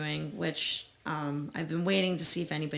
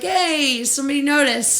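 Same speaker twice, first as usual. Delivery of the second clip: high, loud burst of delight; delighted retold cheer; 9 semitones higher, 9 dB louder than usual. Band answers the kid who caught it, delighted. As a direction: celebrate finally being noticed.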